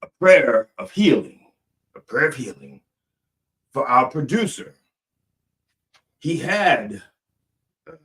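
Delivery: drawn-out preacher cadence; mock healing prayer. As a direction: solemnly intone a mock prayer for the producer.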